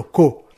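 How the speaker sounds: "co" stressed on its own; stressed syllable. Shown as a demonstration. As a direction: punch the syllable "co". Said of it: "mais sur le".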